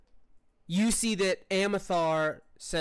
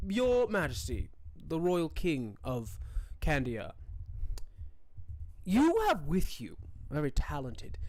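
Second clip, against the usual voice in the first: courtly noble. Acted. Noble petitions the king, lightly voiced formal courtier. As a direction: play the polite court noble, earnest and eager.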